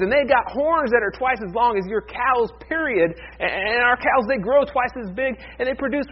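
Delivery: scoff, then pile up the boasts; scoffing Texan farmer. Acted.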